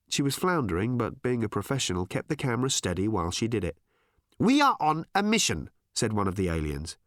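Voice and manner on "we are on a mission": high, loud odd alien. Acted. Alien telling Tricia their mission, high and odd. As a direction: announce it like an alien.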